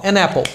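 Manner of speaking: "an apple" in one go, "a-napple"; normal linked speech. Shown as a demonstration. Teacher demonstrates speaking normally, linked N. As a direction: slide from "an" into "apple" without a stop. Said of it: "Aí eu posso falar normal".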